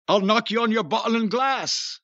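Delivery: put-on a light stab at a London Cockney accent. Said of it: "Maybe we could do it as a, as Cockneys".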